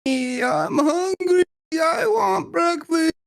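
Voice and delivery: high, slow moaning zombie wail. Retold or imitated. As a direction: drag it out like a hungry zombie. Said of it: "chasing us down like a zombie".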